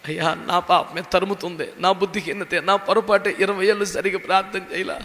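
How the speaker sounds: a touch of tearful repentance, retold; mild weeping confession. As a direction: confess the sins with understated sobbing tone. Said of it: "ఏడుపు, ఏడుపు, ఏడుపు". (కొంచెం ఏడుపుతో పశ్చాత్తాపం, నెమ్మదిగా)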